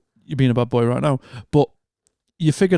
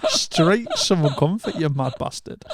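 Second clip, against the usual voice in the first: laughing disbelief; 3 semitones higher, slower than usual. Retold or imitated. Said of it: "I was like".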